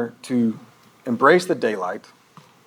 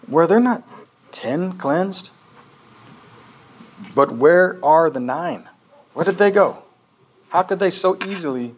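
Jesus questioning; 3 semitones higher than usual. Acted.

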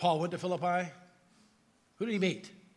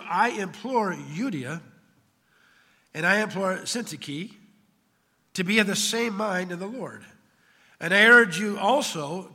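emphatic Bible reading, easing off at the close; Scripture reading; 6 dB louder than usual. Acted. Preacher reading Paul's appeal to two women, emphatic Scripture reading. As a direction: proclaim the appeal firmly, then let it settle. Reads Scripture aloud to congregation.

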